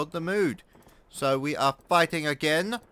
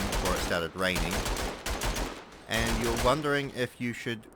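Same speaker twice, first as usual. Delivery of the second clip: a lower, knowing inner voice; voice in my head; 5 semitones lower than usual. Acted. The voice in his head needling him about housework and anime, in a lower knowing tone. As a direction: speak as his own nagging conscience, a bit lower. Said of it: "how are you doing, voice in my head?".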